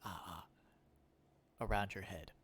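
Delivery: hesitant stammering threat; Jeff Goldblum. Retold or imitated. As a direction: stumble through the trap rules. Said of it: "still going".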